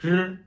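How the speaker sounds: R said like the Chinese r; R as the Chinese letter r; Chinese r sound. Shown as a demonstration. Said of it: "pour la lettre R".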